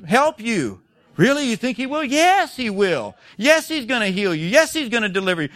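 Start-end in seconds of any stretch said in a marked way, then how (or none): 1.2-2.0 higher, incredulous questioning; doubtful. Acted. Preacher voices a doubter questioning God's help, incredulous. 2.0-5.5 emphatic assurance. Acted. Preacher answers a doubter about God's help, emphatically assured. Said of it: "we need to talk like that".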